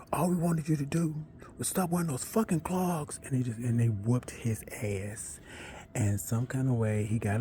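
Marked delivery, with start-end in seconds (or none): 0.1-3.2 mock hazer yell. Hazers yelling while beating him.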